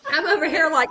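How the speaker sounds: real laugh building up. Real, not acted. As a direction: giggle into the setup. Laughing setup for mock quote.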